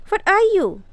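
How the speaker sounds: sharp high retort; indignant snap; snapped. A narrator's reading. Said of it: "snapped Mary".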